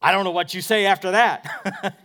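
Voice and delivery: words spilling through a laugh. Real, not acted. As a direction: break into a real laugh. Laughs at the awkward thought.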